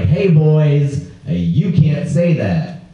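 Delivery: slow, hammed-up tough guy warning; puffed-up fake bravado, slowly; mock tough stand. Confronting the catcallers, in a slow, hammed-up tough voice. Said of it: "this was my move".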